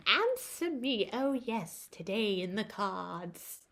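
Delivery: mock witch posing riddles; witchy voice. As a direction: croon it like a storybook witch. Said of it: "weird and witchy".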